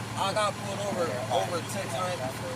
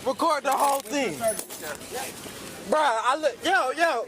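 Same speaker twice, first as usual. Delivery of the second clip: loud urgent; 4 semitones higher, 4 dB louder than usual. Real, not acted. Arrested man urging bystander to record.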